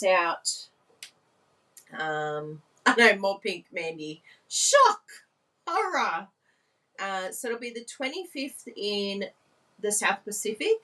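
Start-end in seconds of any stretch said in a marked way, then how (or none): 4.5-6.3 hammed-up shocked gasp of horror; high, loud mock horror. Mock dramatic exclamation.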